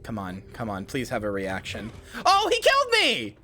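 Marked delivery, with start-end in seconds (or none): 2.2-3.4 real shouts of outrage, much higher and louder; furious outburst. Real, not acted. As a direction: yell at the boss who just killed you. Killed by boss mid-dance.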